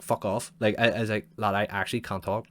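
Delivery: annoyed retort. Retold or imitated. Angrily telling caller off.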